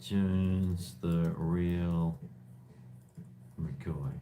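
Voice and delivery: drawn out word by word; slow dictation. Real, not acted. Vlogger typing a channel name in, slow and halting. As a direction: say it piece by piece as you type. Spelling out words while typing.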